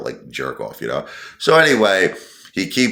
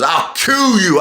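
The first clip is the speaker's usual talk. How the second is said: retold threat; 10 semitones higher, slower than usual. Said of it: "He goes".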